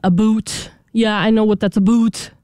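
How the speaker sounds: mock Canadian accent with "boot" for about. Co-host mocks how Canadians talk, Canadian accent. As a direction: imitate a Canadian saying "boot". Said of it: "what it is with the Canadians".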